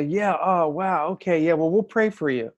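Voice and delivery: offhand brush-off. Retold or imitated. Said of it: "when I say".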